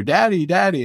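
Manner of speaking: high squawky call of Daddy; parrot calling Daddy. Retold or imitated. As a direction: mimic the bird calling out for Daddy. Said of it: "I just hear".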